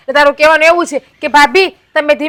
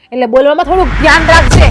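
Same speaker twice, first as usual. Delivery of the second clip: stern warning shout. Acted. Elder warns younger, shout.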